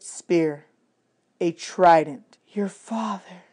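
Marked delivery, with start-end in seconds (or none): 2.5-3.4 much softer awed murmur. A narrator's reading. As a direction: breathe it out in awe. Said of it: "Annabeth murmured".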